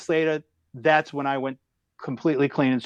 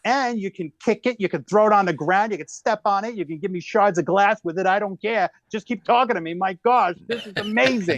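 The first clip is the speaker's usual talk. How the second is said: smitten gushing; 5 semitones higher than usual. Retold or imitated. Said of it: "I'm like".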